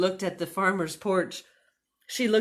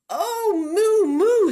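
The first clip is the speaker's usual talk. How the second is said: fond exclaim; 12 semitones higher, 8 dB louder, much slower than usual. Acted. Minnie fondly exclaims at Moo.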